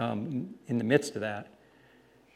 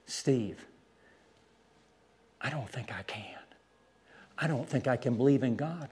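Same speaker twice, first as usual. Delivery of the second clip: soft, halting retold admission; hushed, understated reply with long pauses; quiet confession; 8 dB quieter than usual. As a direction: imitate a man quietly admitting doubt.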